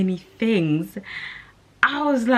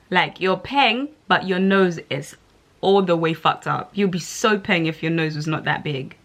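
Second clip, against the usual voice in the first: mock backhanded critic. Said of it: "it's kinda like saying".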